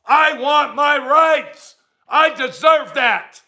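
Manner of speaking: mock entitled whine. Mocking entitled people on the Fourth of July, slow whine. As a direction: drag it out like a spoiled child.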